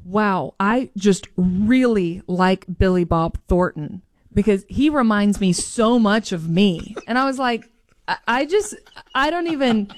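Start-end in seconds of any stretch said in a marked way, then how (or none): 0.0-6.9 low, slow admiring dad; slow it down and lower it, quoting your dad; lightly mimicked slow, self-satisfied father; imitating dad. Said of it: "Tad starts immediately going".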